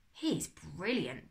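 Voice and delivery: slow, delighted little praise; happy. Acted. Boy admiring the firefly, slow and happy. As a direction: savour the word, pleased. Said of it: "Burkle said happily".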